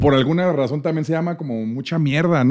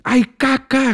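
retold yelp; 9 semitones higher, much slower than usual. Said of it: "gritó así como en el radio".

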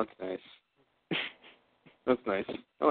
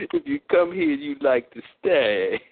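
imitated rhyme voice; slower than usual. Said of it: "I gotta hear that rhyme again".

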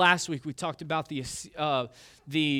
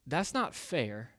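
indignant; 3 semitones lower, 5 dB quieter, slower than usual. Retold or imitated. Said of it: "you just get indignant".

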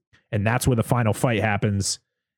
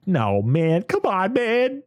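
much higher, pleading whine of protest; anguished protest; 9 semitones higher, much slower than usual. Retold or imitated. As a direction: beg the movie not to go there. Viewer protesting sad turn.

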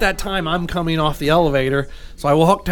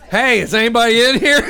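calling out; 5 semitones higher, 3 dB louder than usual. Retold or imitated. Calling into the hotel room.

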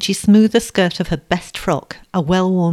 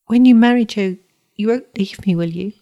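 higher and louder, breaking with worry; 4 semitones higher, 5 dB louder than usual. A narrator's reading. Blind boy begs his sister not to leave him, voice breaking. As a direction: plead as the voice cracks. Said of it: "and his voice broke".

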